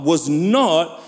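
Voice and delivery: "not" repeated with deliberate weight; stress on NOT. Real, not acted. Preacher underlining it was no answered request, stressing "not". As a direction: land firmly on "not", then pause. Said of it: "I emphasize the word not".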